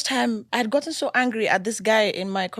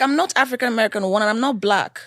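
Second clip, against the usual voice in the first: emphatic declaration; 5 dB louder than usual. Real, not acted.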